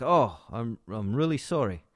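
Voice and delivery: lightly attempted British accent; mock British apology; a hint of an amateur British accent; a singer. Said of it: "try to do a British accent".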